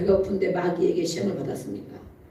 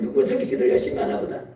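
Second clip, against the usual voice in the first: whispering onlooker; 11 semitones lower, faster than usual. Retold or imitated. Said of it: "어, 목사님".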